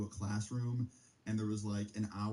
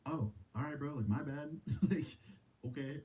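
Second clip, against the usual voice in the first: retold awkward apology, higher with a laugh; 3 semitones higher than usual. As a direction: back down with an embarrassed little laugh. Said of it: "I was awkwardly laughing".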